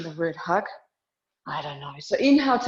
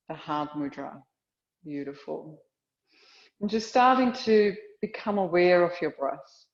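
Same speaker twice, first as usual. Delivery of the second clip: calm, measured yoga-teacher voice with long pauses; guided meditation; 3 semitones lower than usual. Real, not acted. Teacher guiding a yoga class into awareness of breath and heart, calm meditation. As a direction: settle them into stillness, phrase by phrase.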